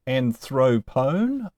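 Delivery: "anthropone" very slowly, stressed on "thro"; stress on second-to-last syllable. Shown as a demonstration. Teacher reciting the noun pattern, middle-syllable stress on "anthropone". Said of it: "own is always long".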